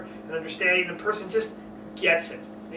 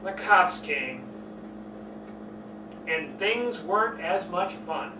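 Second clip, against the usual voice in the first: dropped, serious; 5 dB quieter, slower than usual. Shown as a demonstration. Coach showing a story turning serious. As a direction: let the story sink flat. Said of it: "change that whole pitch".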